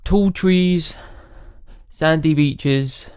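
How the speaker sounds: slow, spaced-out read in amateur Scottish; put-on Scottish accent. Reading the castaway's message aloud, put-on Scottish accent. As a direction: read each phrase as a portentous Scottish line.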